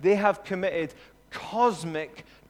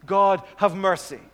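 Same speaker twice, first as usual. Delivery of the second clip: pleading prayer; 5 dB louder than usual. Acted. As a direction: beg God emphatically, as Moses praying. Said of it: "his prayer is basically this".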